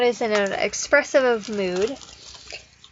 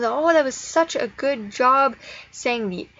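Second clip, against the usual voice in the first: enthusiastic praise; 3 semitones higher than usual. Shown as a demonstration. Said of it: "you would praise them".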